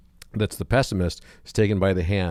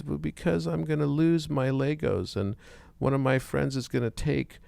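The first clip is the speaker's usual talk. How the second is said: put-on pessimist little boy; 6 semitones higher than usual. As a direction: whine out every fear like a gloomy five-year-old. Pessimist boy voiced in joke.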